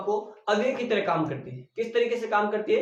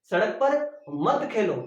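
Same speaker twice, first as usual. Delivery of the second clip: मत को ज़ोर देकर; stress on मत. Shown as a demonstration. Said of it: "तो ये मत वहां पे क्या हो गया". ("मत" पर ज़ोर)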